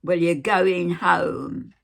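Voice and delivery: loud, slow insistence; retold shouting. Nurse overruling the patient, loud slow shout. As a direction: press it on her loudly and slowly. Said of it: "The whole floor must hear you".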